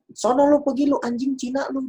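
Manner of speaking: high-pitched mock jeering at a stranger; imitating a racist taunt. Stranger in a mall jeering at the speaker, mock taunt. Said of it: "Kayak dia, dia kayak".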